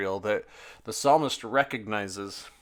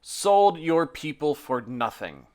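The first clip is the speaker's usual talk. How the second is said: earnest, measured psalm reading; scripture reading; 3 semitones higher than usual. Acted. Pastor reading Psalm forty-four to the congregation, solemn and earnest. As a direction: read the lament to the congregation with weight.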